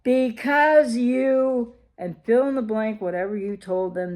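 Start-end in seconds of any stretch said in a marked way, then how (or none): 0.0-1.7 drawn-out accusation. Retold or imitated. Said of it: "and then comes the".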